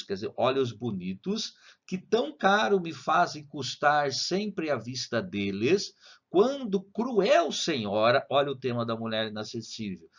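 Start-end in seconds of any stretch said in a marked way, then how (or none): 1.9-8.3 slow poem recital, rising on cruel; slow reading. Shown as a demonstration. Teacher reading a sonnet to students, slowly. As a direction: read it slowly, lingering on each line. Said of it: "vou ler devagar".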